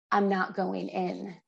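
slow, measured retold news; grave announcement. Husband to wife after the attorney's call, grave and slow. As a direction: let each word land slowly. Husband relays stayed prison sentence.

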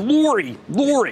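Lori repeated in a Philly accent; Philadelphia-accented "Lori", said over. Shown as a demonstration. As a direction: try out the Philly vowel in Lori. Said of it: "there it is again".

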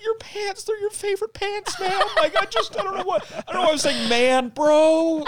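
very high, wailing retold blubber; mock crying. Guilty friend who ruined their pants, mock crying. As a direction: blubber it out, hammed up. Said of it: "But I cried".

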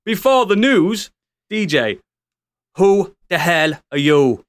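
lightly put-on Irish accent, drawn out; a slow mock Irish lilt; a hint of an Irish brogue, slow. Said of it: "an Irish voice to come out".

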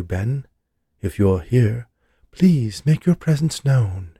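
sing-song medium calling spirits; soft, melodic tone. Acted. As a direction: intone it like a seance chant. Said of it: "moaning in a soft, melodic tone".

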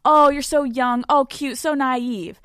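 slow, condescending mock sweetness; patronizing mock voice. Host imitates the ballplayer belittling her, slow patronizing tone. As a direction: talk down to her like she's a little girl. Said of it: "It's patronizing".

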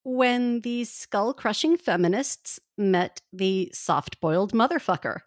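slow, grand title read; dramatic title announcement. Acted. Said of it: "this episode should be called".

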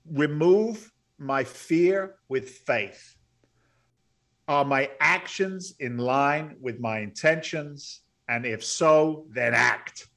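very slow, weighty delivery with long pauses; solemn mantra reading. Acted. Quoting the words on his office wall, slow emphatic recital. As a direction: declare each phrase deliberately.

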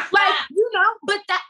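high, loud laughing words. Real, not acted. Loud laughing after impression.

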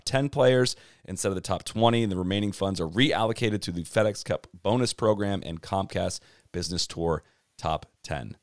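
winded after a long read; running out of air; out of breath. Real, not acted. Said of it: "Guys, I'm out of breath".

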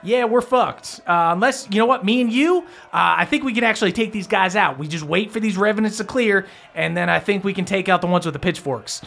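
high-pitched, hurried henchman plotting; scheming Langston. Acted. Langston plots escape with his friend, agitated high voice. Game master plays Langston.

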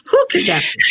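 high, giggling mock wonder; laughing tease. Host teasing the audience about a surprise guest, laughing. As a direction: play coy while laughing.

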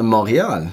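Montreal said the French way, silent t; French pronunciation. Shown as a demonstration. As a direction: say Montreal as a French speaker would. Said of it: "said it in the French way".

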